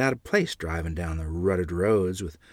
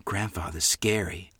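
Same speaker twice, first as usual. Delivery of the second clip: put-on softer, half-whispered child; a timid, softened near-whisper; 2 semitones lower, 7 dB quieter than usual. A narrator's reading. Little sister whispers her fear of the car, softly. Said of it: "Lorene whispered".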